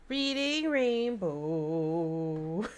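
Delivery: very slow drawn-out title read; slow mock announcer. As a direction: draw it out like a TV announcer. Quoting a TV show title.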